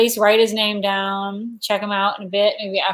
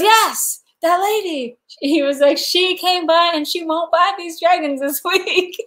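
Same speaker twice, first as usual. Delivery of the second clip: imitating booth guy; 8 semitones higher than usual. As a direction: play the vendor laughing it up. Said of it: "And he goes".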